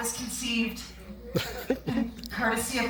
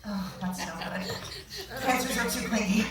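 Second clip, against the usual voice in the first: pitying whisper. Acted. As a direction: whisper it like bad news. Astrologer hears his sign.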